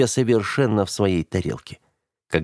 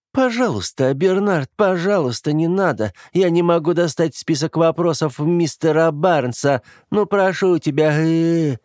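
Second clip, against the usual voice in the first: whiny, pleading, higher mockery; mocking parody of brother; 9 semitones higher than usual. Sister mimicking her brother's pleading, mocking and whiny. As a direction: ham up his begging to ridicule him. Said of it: "спародировала Оливия брата".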